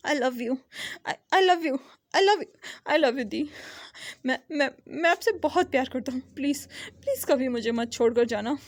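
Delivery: tearful, pleading declarations to his sister; cling to her and beg through tears; a lightly acted sob-choked plea; crying like a child. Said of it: "बच्चों की तरह रो रहा था".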